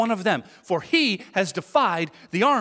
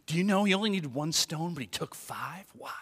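imitated suspense, dropping much softer; dramatic teasing; 6 dB quieter than usual. Podcast pastor quizzing about five stones, dramatic hush. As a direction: pose a riddle, sinking into a hush. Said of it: "all dramatic".

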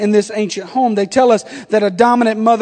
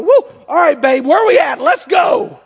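pumped up; 4 semitones higher than usual. Retold or imitated. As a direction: burst in cheering like it's game time. Husband bursts back in, pumped.

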